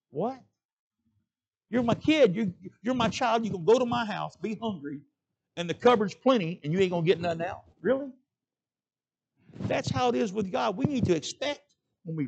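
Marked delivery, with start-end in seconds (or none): 0.1-8.1 put-on higher and louder, a father scolding his child; a hint of an exasperated parent, higher and louder. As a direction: sound like a dad who can't believe it. Father answers child who won't reach.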